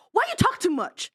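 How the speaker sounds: imitating rude host. Guest mimicking the host who cut her off, rude imitation. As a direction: mimic someone rudely cutting in. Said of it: "you were quite rude to me".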